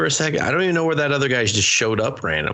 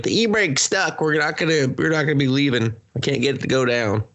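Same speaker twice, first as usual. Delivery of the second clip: raised mock panic voice; mock panicked driver; 6 semitones higher than usual. Driver complaining the e-brake is stuck, mock panic.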